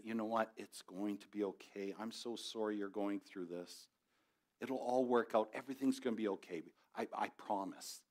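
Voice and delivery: soft and kind like a friendly TV host; gentle Mister Rogers. Retold or imitated. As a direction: pat them on the back and soothe them. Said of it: "Gentle smile, kind voice, kind words".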